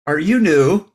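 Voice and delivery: imitating an eager greeter at the door; retold bright-pitched welcome; welcoming greeter.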